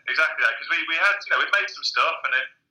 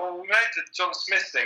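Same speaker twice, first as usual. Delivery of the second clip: defensive reply; 5 semitones higher than usual. Retold or imitated.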